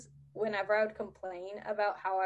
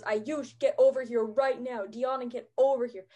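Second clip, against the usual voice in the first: mock teacher yelling orders, somewhat louder; retold yell; 6 dB louder than usual. Student imitates teacher barging into the hallway, retold yell. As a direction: imitate an angry summons, moderately raised voice. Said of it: "he yells at us".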